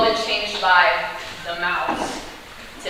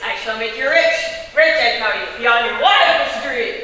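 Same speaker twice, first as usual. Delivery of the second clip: grand villain. Acted.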